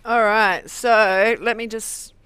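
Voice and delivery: talking with a mouth full; words round a bite of chicken. Real, not acted. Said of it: "while you've got your mouth full".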